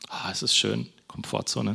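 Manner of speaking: soft, relaxed sigh of comfort; mock contentment. Preacher plays someone settling into the comfort zone, softly content. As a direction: sink softly into a cosy seat.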